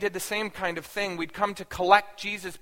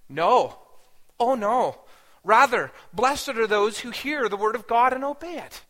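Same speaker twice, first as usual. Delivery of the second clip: loud, higher-pitched firm refusal; emphatic correction; 5 semitones higher, 7 dB louder than usual. Retold or imitated. Jesus correcting the woman who praised his mother, emphatic. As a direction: contradict firmly, projecting to a crowd.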